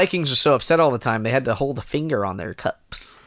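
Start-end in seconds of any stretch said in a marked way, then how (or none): 1.2-3.2 unvoiced joking whisper. Real, not acted. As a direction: whisper it as an aside.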